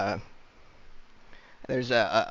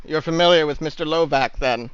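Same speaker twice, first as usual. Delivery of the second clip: cold lord voice; 4 semitones higher, 6 dB louder than usual. Acted. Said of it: "the Lord Protector's voice says".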